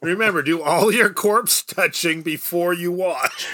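upbeat fifties educational film voice; cheery old-school instructor; wholesome 1950s announcer. Pretend. Mock public-service reply to kid.

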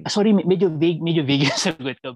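sheepish laugh through words; laughing apology. Real, not acted. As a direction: apologize with a giggle.

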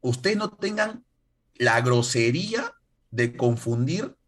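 slow, emphatic mock lecture; retold indignation. Korean YouTuber setting viewers straight on the two Koreas, indignant. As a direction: spell it out slowly, imitating an indignant YouTuber. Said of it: "se amargó".

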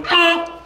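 air horn imitation. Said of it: "instead of going".

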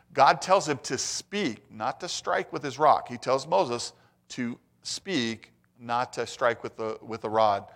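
slow, deliberate stress on speak and strike; slow emphatic contrast. Real, not acted. Preacher to congregation, contrasting speak with strike, slowly. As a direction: lean on each word so the instruction lands.

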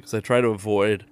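talking through hiccups. Real, not acted. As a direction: hiccups breaking the words. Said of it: "oh, excuse me, I get the hiccups".

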